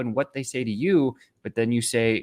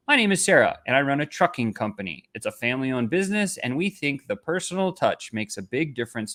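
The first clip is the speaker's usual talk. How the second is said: bad pitch read. Shown as a demonstration. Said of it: "I'm gonna read it out loud".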